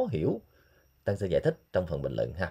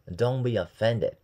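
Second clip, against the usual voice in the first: drawn-out careful Don't be offended; slow it right down for students; slow model; much slower than usual. Shown as a demonstration. Teacher slowly modeling Don't be offended for learners, drawn out. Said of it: "teacher demo, slow".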